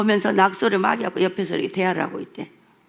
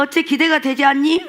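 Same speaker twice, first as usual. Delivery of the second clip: quoting the Lord, higher and louder, Jeolla flavour; the Lord in Jeolla dialect; 6 semitones higher, 5 dB louder than usual. Retold or imitated. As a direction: lift it as the Lord asking eagerly. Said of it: "우리 주님도 전라도 사투리 쓰시더라고". (전라도 사투리 쓰시는 주님 목소리로)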